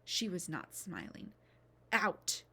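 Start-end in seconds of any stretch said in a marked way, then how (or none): 1.9-2.4 a loud shout. Acted. Midwife orders the crowd out, loud shout. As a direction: bark the order once. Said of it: "she shouted".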